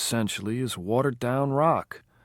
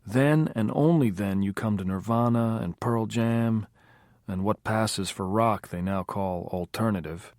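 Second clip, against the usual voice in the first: higher and louder, a fired-up music buff; Curtis getting worked up; 6 semitones higher, 4 dB louder than usual. A narrator's reading. Curtis lecturing the band, fired up and insistent. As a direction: build up the rant about a singer.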